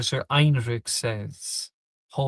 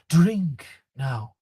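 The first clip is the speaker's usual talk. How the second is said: commanding order; 3 dB louder than usual. Acted. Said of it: "he says".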